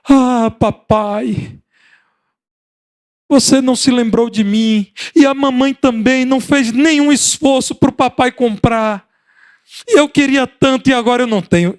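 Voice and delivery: put-on high whining child's complaint; imitated crying child. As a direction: whimper it like a hurt kid. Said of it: "começou a chorar". (imitando criança chorosa)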